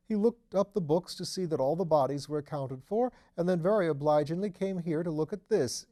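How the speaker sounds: a nervous, eager tenant chattering away; Mr Thipps. Acted.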